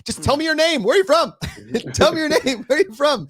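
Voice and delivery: high, quick questions; rushed interviewer. Retold or imitated. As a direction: fire them off to each player.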